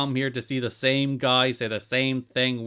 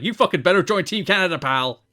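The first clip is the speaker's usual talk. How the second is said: aggressive demand; 7 semitones higher, 5 dB louder than usual. Retold or imitated. Roode bullying Christian to join.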